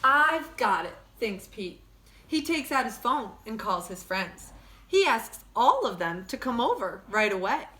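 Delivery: lively storybook read-aloud; bright picture-book narration; reading to children. Acted. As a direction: read it like story time for kids. Reads picture book to class.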